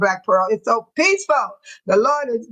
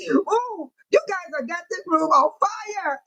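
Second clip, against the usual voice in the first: breathless giggle through the words; laughing so hard it squeaks out; 3 semitones higher, slower than usual. Real, not acted. Host laughing at her chat, giggling through the words.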